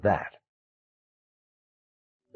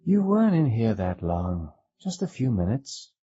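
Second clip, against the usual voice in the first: harsh; 6 semitones higher than usual. A narrator's reading. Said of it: "she said harshly".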